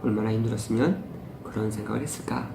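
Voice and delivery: soft, quiet sympathy; tender question to a hurting kid; empathetic. Shown as a demonstration. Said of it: "공감해 주십시오". (조용하고 다정한 공감)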